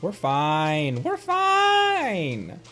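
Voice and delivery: ordinary talk, nothing marked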